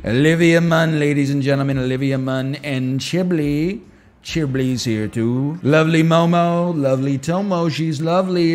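lightly voiced Trump rally patter; Trump impression. Streamer redoing his Trump impression for chat. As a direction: hype each name like a rally speech. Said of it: "I haven't done the impression".

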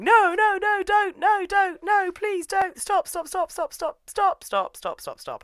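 high, loud frantic pleading that fades away; mock screaming. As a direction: shriek the repeats in imitation, then peter out. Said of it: "just starts screaming".

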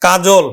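কাজল with u sound, ka-jul; teacher models কাজল; pronunciation demo. Shown as a demonstration. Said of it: "উচ্চারণ করলাম আমরা".

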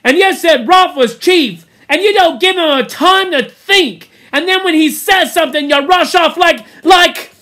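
high, loud ranting; Piggy's angry tirade. A narrator's reading. Piggy blames the boys for the fire, loud angry rant. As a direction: keep railing at them till the words run out. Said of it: "listening to his tirade".

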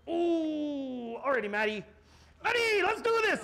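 high, pumped mock bartender with a laugh; imitating the bartender. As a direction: cheer him on like a hyped bartender. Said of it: "He was like".

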